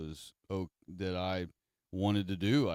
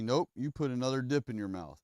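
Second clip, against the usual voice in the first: mom ordering; 5 semitones higher, faster than usual. Retold or imitated. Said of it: "she is telling me".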